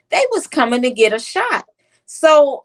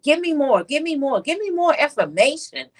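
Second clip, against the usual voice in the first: lightly voiced eager kids, higher pitch; excited kids; 5 semitones higher than usual. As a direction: imitate children begging with mild excitement. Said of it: "the kids were excited".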